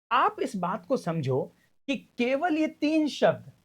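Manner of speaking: ordinary talk, nothing marked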